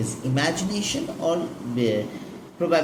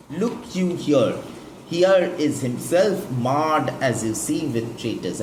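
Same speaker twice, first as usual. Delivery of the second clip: dramatic reveal; 3 dB louder than usual. Shown as a demonstration. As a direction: present the wounded body to the crowd. Antony reveals Caesar's body.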